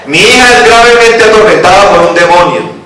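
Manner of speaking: put-on high, projected plea for her child; acted cry of a pleading woman. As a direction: declaim it as a mother begging aloud. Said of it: "Estaba clamando".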